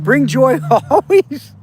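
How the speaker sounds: slow, laughing through the words. Acted. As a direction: let a chuckle break into it. Repeats catchphrase laughing.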